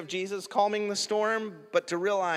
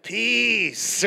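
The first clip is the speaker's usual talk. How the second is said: long, raised, hammed-up command; drawn-out loud peace; 6 semitones higher, 5 dB louder than usual. Preacher trying another way Jesus might say it, hammed-up. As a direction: stretch it out loud and high. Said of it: "Or was it".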